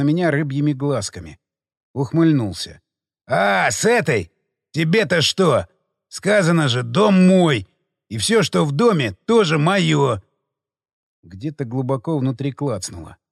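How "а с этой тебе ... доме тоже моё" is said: smug. Acted. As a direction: sneer it like you own everything. Marauder smirking, claiming the house.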